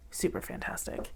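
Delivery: "Super fantastic" whispered breathily, no voice; whispering. Real, not acted. Whispered echo of her own words.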